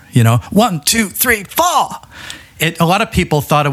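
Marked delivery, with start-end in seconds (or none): 0.5-1.9 higher, punchy Liverpudlian count-in imitation; a light imitation of a singer counting in, in a Liverpool accent; mimicking a singer's count-in. Guest imitates a singer counting in the song, a light Liverpudlian shout. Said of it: "that the singer sings four".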